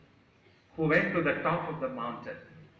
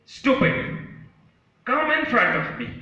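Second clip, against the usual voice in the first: high, loud retort; angry echo; 8 semitones higher, 6 dB louder than usual. Acted. Mountain and trees answer the boy, angrily echoing. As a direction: throw the boy's challenge back. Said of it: "There was a response".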